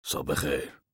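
low, restrained angry good morning; understated anger, dropped in pitch. A narrator's reading. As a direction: return the greeting grudgingly, low and quiet. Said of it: "مرد با لحنی خشمگین گفت".

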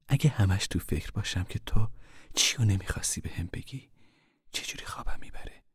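a hint of a girlish, coaxing voice, fading to a whisper. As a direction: coax him like a young girl, softly. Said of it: "با لحنی دخترانه گفت".

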